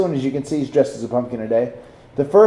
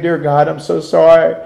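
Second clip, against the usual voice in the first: raised, pleading mock prayer; higher-pitched, hammed-up begging for forgiveness; desperate praying; 3 semitones higher than usual. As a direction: imitate a tearful plea to God. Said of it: "And he started praying".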